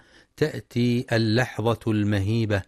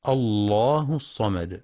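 slow, measured tajweed recitation; Quranic recitation. Shown as a demonstration. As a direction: recite the verse slowly with tajweed. Quran verse recited in lesson. (تلاوة مجودة بطيئة)

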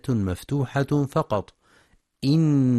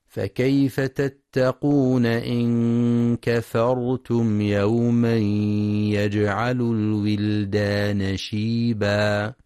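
Quranic recitation; 3 dB louder, slower than usual. Acted. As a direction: chant the verse with long vowels. (تلاوة مرتلة بصوت مرتفع)

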